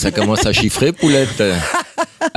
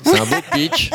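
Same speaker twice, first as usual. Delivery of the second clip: mock admiring. Host mocking tone.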